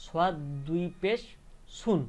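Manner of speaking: rising "পেশ", pause, then "সুন"; tanween pronunciation. Shown as a demonstration. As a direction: close "সুন" on a clear n. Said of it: "উচ্চারণটা কি হবে".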